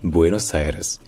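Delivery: "Buenos Aires" dit bwé-nos aï-rès; prononciation espagnole. Shown as a demonstration. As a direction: faire entendre quatre syllabes dans "Buenos Aires". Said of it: "c'est vraiment en quatre syllabes". (« Buenos Aires » à l'espagnole)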